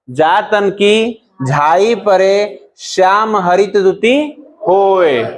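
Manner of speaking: slow, drawn-out couplet reading; verse recitation. Shown as a demonstration. Teacher reciting an example couplet to students, slow verse recitation. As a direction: recite the verse with long, stretched words.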